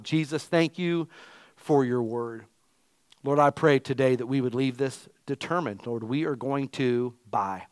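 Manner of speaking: earnest pastoral prayer, measured and steady; closing prayer. Acted. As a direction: pray over the congregation, unhurried.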